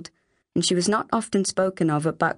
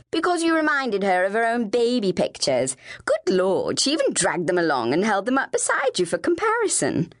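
exasperated, snooty Ophelia; lightly voiced needling big sister; scornful older sister; 2 semitones higher than usual. Ophelia keeps taunting her sister.

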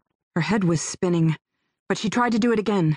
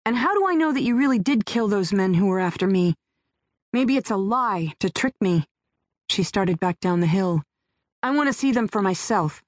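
put-on suspicious young woman. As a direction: demand proof, distrustful. Heroine voiced by narrator.

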